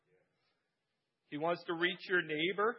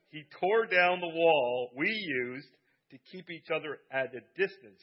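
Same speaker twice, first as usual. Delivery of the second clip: slow and deliberate, each word placed, a little louder; slowed down, careful; 7 dB louder than usual. Shown as a demonstration. Preacher retrying a tricky sentence for the congregation, slowly and carefully. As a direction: take it slow so the sentence finally comes out. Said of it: "Slow down".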